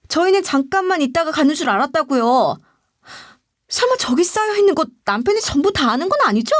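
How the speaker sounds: high-pitched indignant pushback; defiant protest. A narrator's reading. Employee protests to the boss over forced kimchi work, indignant. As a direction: argue back hotly, voice pitched well up. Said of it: "바락바락 되들기 시작했어요".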